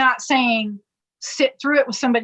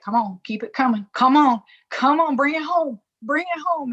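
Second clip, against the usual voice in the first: encouraging; 4 semitones higher than usual. Retold or imitated. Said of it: "just be like".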